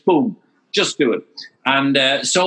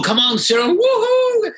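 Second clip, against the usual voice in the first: crowd cheering. Retold or imitated. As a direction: cheer him on like a roadside crowd. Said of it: "they're shouting when the person comes by".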